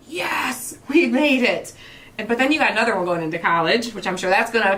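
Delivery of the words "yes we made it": a playful hooray, we made it; proud parent doing a small mock celebration; excited cheer. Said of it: "and then to graduate from college".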